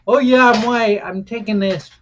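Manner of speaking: a loud, smug mock quote; mock smug white guy. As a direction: sneer it out like a smug privileged guy. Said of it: "and be like".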